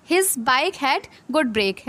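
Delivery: very slow, word by word; slow read-aloud. Shown as a demonstration. Teacher reading the example sentence, very slowly. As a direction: drag out each word for the class. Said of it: "बहुत अच्छा जो".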